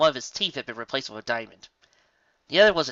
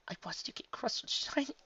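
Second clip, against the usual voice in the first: horrified; 11 semitones higher, 8 dB quieter than usual. A narrator's reading. Twilight's horror fades.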